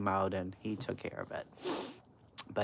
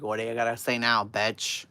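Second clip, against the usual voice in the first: put-on loud, fast drunken taunt; drunk mother taunting; 6 dB louder than usual. Drunk mother repeating her taunt at the neighbor, loud and fast. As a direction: throw the insult again, sloppy. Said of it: "My mother's like".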